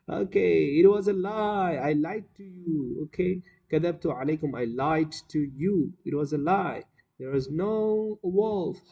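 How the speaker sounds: high, teasing confession in character; gloating prankster shepherd. Acted. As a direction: play the shepherd crowing over his trick. Shepherd gloats over his prank.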